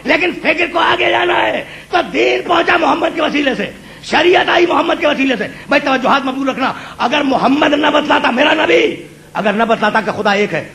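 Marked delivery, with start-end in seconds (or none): 0.0-5.5 impassioned preaching. Acted. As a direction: ring each phrase out to the crowd. Preacher at full force. (پرجوش بلند خطابت)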